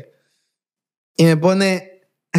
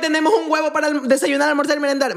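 mock poor mother; 5 semitones higher than usual. Acts out poor African mother.

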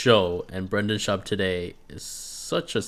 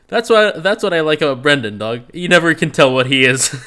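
imitating Kimbo; 6 semitones higher, 7 dB louder than usual. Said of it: "Kimbo's like".

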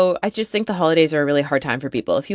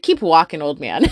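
amused comeback; 3 dB louder than usual. Retold or imitated. Amused retelling of her own comeback.

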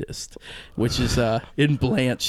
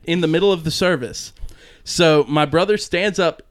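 usual speaking voice

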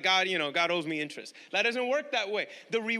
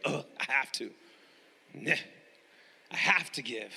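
lower, reluctant groan of a grudging giver; 10 semitones lower than usual. Retold or imitated. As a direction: sigh it out like it's a chore. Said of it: "You got the grudging givers".

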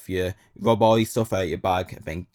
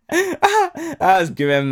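laughing; 7 dB louder than usual. Real, not acted. Laughing at mate being raided.

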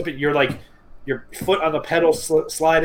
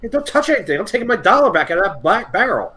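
mock indignant; 5 semitones higher than usual. Confronting the car washer.

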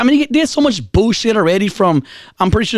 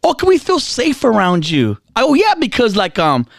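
imitating the girls; 3 semitones higher than usual. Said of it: "this is what they're saying".

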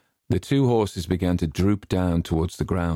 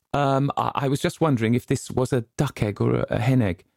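put-on flustered boy; 7 semitones higher than usual. A narrator's reading. Boy caught, makes excuse.

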